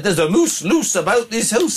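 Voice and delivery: 轻度模仿的苏格兰口音; Scottish accent. Retold or imitated. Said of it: "I said we were doing Scottish accents".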